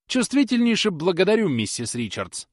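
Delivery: high, loud mock gratitude; sarcastic cry. A narrator's reading. Susan snapping sarcastically at Polly, loud. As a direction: thank her with biting sarcasm. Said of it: "вскричала".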